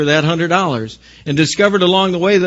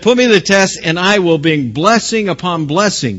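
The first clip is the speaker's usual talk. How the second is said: raised, emphatic promise; God promising; 3 semitones higher, 3 dB louder than usual. Acted. Preacher correcting with what God really said, emphatic raised declaration. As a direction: declare it firmly, voice lifted at the start. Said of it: "He said".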